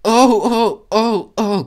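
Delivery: high, loud shrieking wagons; startled freight car shriek; screeching trucks. A narrator's reading. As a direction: squeal as the couplings jerk. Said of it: "kreischten sie".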